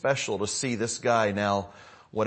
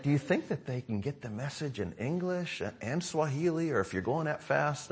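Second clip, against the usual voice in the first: wife's question; 6 semitones higher, 6 dB quieter than usual. Retold or imitated. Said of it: "She's like".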